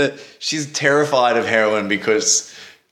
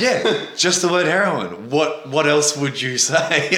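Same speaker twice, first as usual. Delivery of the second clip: matter-of-fact; 2 semitones higher, slower than usual. Retold or imitated. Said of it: "she said it to me like I was the weird person".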